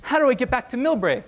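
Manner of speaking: high, pleading panic; panicked plea. Retold or imitated. Stranded drunk begging the teller for help, high and panicky.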